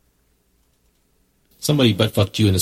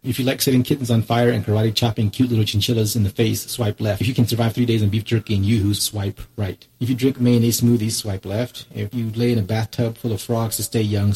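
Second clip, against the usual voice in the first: upbeat ad voice; ad read; 3 dB louder than usual. Acted. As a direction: read it like a promo. Reads a dating ad.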